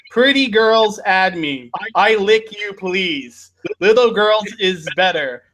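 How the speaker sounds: lightly hammed read of a creep's post; creepy post voice. Reading a creep's Facebook post to cohost, mock creepy voice.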